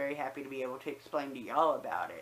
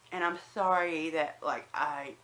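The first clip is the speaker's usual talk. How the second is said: lisp from new dentures. Real, not acted. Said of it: "my list is, like, so much worse, and, like, I whistle when I say certain words".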